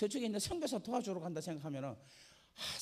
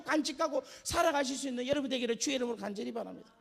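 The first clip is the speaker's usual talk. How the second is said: loud, high, preached blessing; fervent benediction; 8 semitones higher, 7 dB louder than usual. Real, not acted. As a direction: call it out over the congregation. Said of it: "repeated benediction".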